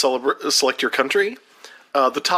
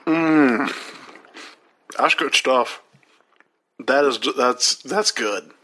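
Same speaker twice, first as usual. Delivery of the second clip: talking while chewing a wafer; words around a crunchy bite; mouth full; 2 semitones lower, slower than usual. Real, not acted. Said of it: "I'm gonna crunch into this right in the mic".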